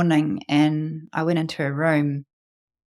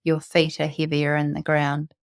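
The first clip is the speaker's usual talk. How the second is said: calm guided meditation with long pauses. Real, not acted. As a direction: lead listeners into their breath, unhurried.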